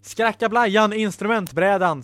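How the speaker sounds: lightly shouted magic command; shouted spell. Acted. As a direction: call the magic words out. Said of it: "skrek Ella".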